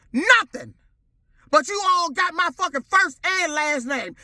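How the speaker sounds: ordinary talk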